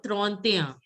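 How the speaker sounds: "trente et un" linked, ending "te-ya"; French pronunciation. Shown as a demonstration. Teacher models thirty-one for pupils to repeat, French pronunciation. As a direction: run "trente" into "et un", falling at the end. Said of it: "Thirty-one will be".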